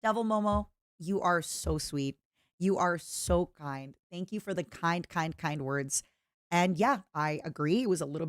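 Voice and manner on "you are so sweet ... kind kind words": slow, soft, touched thank-you; tender thanks. Real, not acted. Streamer thanking a kind fan, soft and slow. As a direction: melt a little as you thank them.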